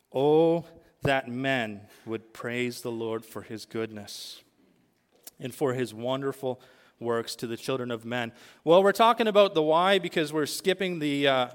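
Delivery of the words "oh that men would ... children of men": psalm recitation. Acted. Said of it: "together with the psalmist".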